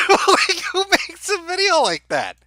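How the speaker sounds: high, loud incredulous laugh; laughing in disbelief. Real, not acted. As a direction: crack up at how absurd it is. Laughing at absurd video.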